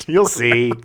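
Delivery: laughing whisper. Real, not acted. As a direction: breathe it out, still laughing. Laughing whisper after bit.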